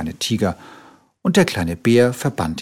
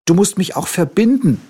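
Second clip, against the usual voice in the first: higher, louder call; higher loud tiger demand; demanding little tiger; 10 semitones higher, 4 dB louder than usual. A narrator's reading. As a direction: insist like a bossy patient. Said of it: "rief der kleine Tiger".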